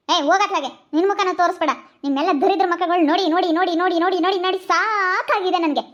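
fed-up, heated telling-off; angry scolding. Acted. Mother refusing to calm down, angrily scolding her family. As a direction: throw the plea straight back, exasperated. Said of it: "ಅಷ್ಟೊಂದ್ ರೇಗಾಡ್ಬೇಡ ನೀನು".

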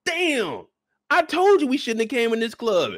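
mock-whine blame at the homie; lightly voiced regretful friend; whiny friend. Friend complaining after arrest.

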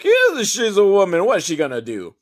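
lightly put-on Italian accent, mocking. Terrorist mocking the girl soldier, in a light Italian accent. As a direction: toss it off in a hammy Italian accent. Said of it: "my terrorist suddenly has an Italian accent".

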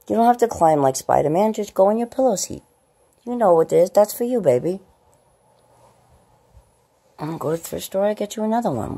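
put-on very high, loud baby-talk scolding of the cat; doting high-pitched nagging at a pet. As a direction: fuss at the cat like a doting mom.

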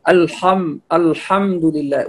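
الحمد لله with a thick, dark ح; over-heavy ha. Shown as a demonstration. Teacher imitates some readers' error, heavy ح in الحمد. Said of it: "ويفخم".

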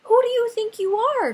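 outraged and proud; indignant cry. Acted. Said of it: "cried the Rainbow Fish".

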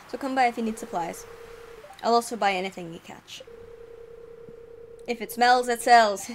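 booming ahoy in a vaguely Scottish sailor voice; sea dog accent. Acted. Willy the fisherman greets the newcomer in a mock Scottish accent. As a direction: play a gruff old fisherman, half Scottish. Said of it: "It might be Scottish".

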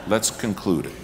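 amused retelling of the host's line; laughing. Retold or imitated. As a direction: repeat it through a chuckle. Repeating host line, laughing.

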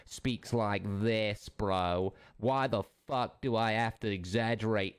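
drawn-out mock North American accent; exaggerated North American accent. Streamer mocking how a rival talks, exaggerated North American accent. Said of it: "What fucking accent is that?".

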